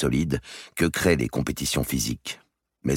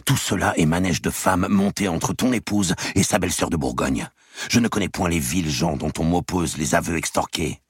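mild anger; 4 semitones higher than usual. Acted. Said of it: "dit Robert avec colère".

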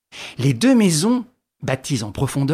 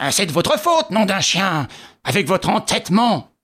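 put-on upset old policeman; 4 semitones higher than usual. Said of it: "désolé".

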